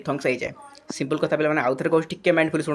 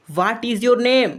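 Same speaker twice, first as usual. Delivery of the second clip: "ହ୍ୱାଟ୍ ଇଜ୍ ୟୋର୍ ନେମ୍" asked forcefully, pitched up; rising question intonation; 5 semitones higher than usual. Shown as a demonstration. Teacher showing students a question, "ହ୍ୱାଟ୍ ଇଜ୍ ୟୋର୍ ନେମ୍" with raised, emphatic intonation. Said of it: "ଆଉ ମୋର ଏଇଟା rising ଇଣ୍ଟୋନେସନ୍ ହେଲା".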